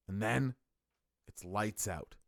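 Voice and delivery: a hint of Sting's dark crow persona; crow impression. Fan doing Sting's ominous entrance, softly. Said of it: "That's my crow impression".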